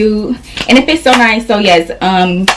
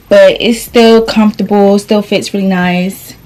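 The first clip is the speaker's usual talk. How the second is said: winded after changing outfits; out of breath; slower than usual. Real, not acted. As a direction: talk while catching your breath. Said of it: "I'm out of breath".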